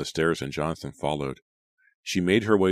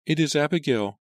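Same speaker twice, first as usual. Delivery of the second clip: tearful whisper; 11 semitones higher, 4 dB louder than usual. A narrator's reading. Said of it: "his mother whispered".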